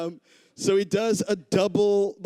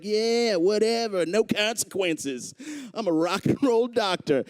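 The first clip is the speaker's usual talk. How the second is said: cocky doctor; 5 semitones higher than usual. Retold or imitated. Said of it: "So he's like".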